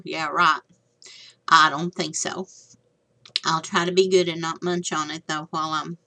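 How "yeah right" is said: sarcastic whisper. Real, not acted. Sarcastic aside about mouth full.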